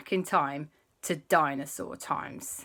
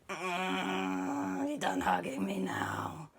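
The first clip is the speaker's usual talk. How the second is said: muffled grumble; 7 semitones lower, 5 dB quieter, much slower than usual. Acted. Uncle endures an overlong hug.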